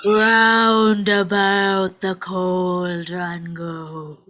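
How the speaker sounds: witch's incantation. Acted. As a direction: stretch it out like a spell. Witch chants over the cauldron.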